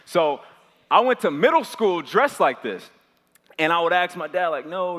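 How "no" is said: higher, squeaky protesting no; boy begging his dad, mock Kevin Hart whine. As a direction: whine it like a small comic pleading. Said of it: "the Kevin Hart voice".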